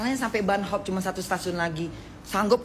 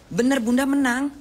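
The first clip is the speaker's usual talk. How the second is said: higher and louder, thrilled; excited; 7 semitones higher, 5 dB louder than usual. Real, not acted. Bunda hearing she won an award, excited. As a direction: burst out with joy at the news.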